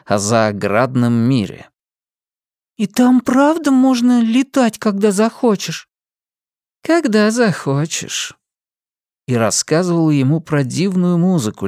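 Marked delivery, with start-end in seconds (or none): 2.8-5.9 put-on high eager little boy voice; curious child. A narrator's reading. The boy asks Linda about flying, eager. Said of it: "слушать, как она рассказывает". 6.8-8.4 higher, slow woman's voice; Linda answering. A narrator's reading. Linda answers her son's question gently. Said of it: "Linda answers".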